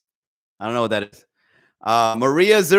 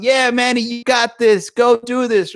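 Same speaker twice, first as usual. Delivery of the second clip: higher, rousing shouts of encouragement; cheering crowd; 6 semitones higher, slower than usual. Retold or imitated. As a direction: hype up the comic like a fan.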